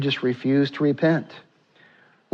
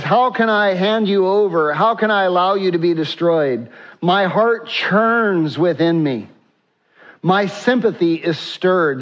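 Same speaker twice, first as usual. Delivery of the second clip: pleading God; 4 semitones higher than usual. Acted. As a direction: plead as a grieving father would. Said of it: "God says".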